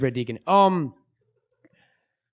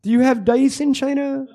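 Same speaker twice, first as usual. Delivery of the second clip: higher, goofy naive teacher voice; higher mock Brendo greeting students; imitating Brendo; 7 semitones higher than usual. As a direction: play Brendo as a clueless, eager foreigner. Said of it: "Hi, I'm Brendo".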